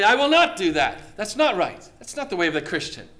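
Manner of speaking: loud, firm no to temptation; firm loud refusal. Shown as a demonstration. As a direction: put the devil in his place. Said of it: "Speak it out loud".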